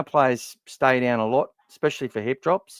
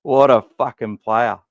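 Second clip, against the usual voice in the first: slow, louder, every word leaned on; emphatic praise; 6 dB louder than usual. Real, not acted. Podcaster loudly raving about a young player. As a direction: drive it home with slow weight. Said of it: "enthusing after whisper".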